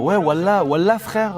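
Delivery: french street slang. Retold or imitated. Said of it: "il va dire".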